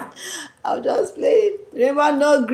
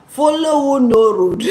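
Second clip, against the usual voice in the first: loud, higher-pitched exclamation; slang called out; 5 semitones higher, 5 dB louder than usual. Shown as a demonstration. Introducing a slang phrase to Martins, loud high exclamation. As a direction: call it out like a catchphrase.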